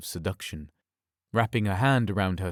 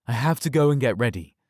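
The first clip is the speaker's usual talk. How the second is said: louder, fast and firm; commanding alpha tone; 4 semitones higher, 5 dB louder, faster than usual. Acted. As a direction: cut her off with authority. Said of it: "I used my alpha tone this time".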